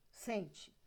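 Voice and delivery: "sente" ending in a weak, unstressed "tchi". Shown as a demonstration. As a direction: show "sente" with its last E turned to I. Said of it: "o T virou ti". ("sente" com final fraco em "tchi")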